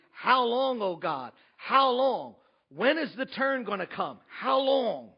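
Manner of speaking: anguished plea. Acted. Pastor voicing a suffering believer's plea, anguished. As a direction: beg God for an end.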